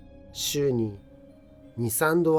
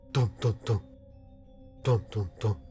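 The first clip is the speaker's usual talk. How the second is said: knocking sound; 3 semitones lower, much faster than usual. A narrator's reading. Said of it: "壁を強く叩く音が聞こえてきました".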